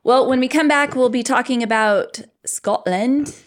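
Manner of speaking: hammed-up announcer teaser; mock show host. Host teasing listeners about the next episode, hammed-up announcer.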